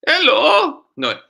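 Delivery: warm-up tries. Shown as a demonstration. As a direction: try out the greeting aloud. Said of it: "Hold on".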